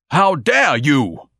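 slow outraged bellow, stretching dare. Acted. Ignatius yells back at neighbor.

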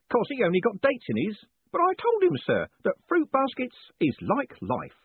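a beaming prison warden teasing his prisoner; jovial warden. A narrator's reading. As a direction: play the cheerful warden gloating kindly. Warden chats.

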